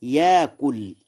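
ياكل as yaakul, long aa with no glottal stop; hamza turned to alif. Shown as a demonstration. Teacher shows Warsh's substitution, ياكل with long aa. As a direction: glide through ياكل without hamza, yaakul. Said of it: "والإبدال في قوله تعالى".

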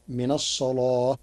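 الصلاة with a thick, dark lam; heavy lam. Shown as a demonstration. Teacher showing the Warsh heavy lam in الصلاة. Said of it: "بتغليظ اللام".

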